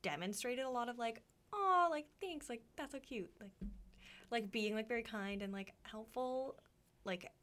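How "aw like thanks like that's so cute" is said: high, falling "aw" of appreciation; high start, softening as it falls; mock sweet gushing. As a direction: coo it like a touched thank-you. Acting a kind, appreciative reaction.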